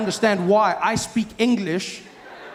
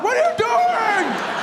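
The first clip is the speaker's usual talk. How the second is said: incredulous yell; much slower than usual. Retold or imitated. Local driver yelling at a lost foreigner, a high incredulous shout. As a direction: yell at a driver who's lost his mind.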